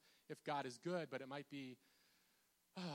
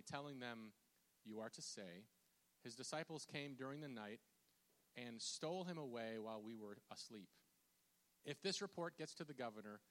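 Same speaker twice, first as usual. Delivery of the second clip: measured reading aloud with pauses between phrases; scripture reading. Acted. Preacher reads the Gospel account to congregation, measured. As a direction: read the passage out to the room, evenly.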